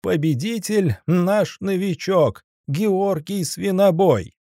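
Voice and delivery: high, slow booming announcer; booming circus ringmaster. Acted. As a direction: boom it out to the crowd. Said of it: "прогудел Заяц".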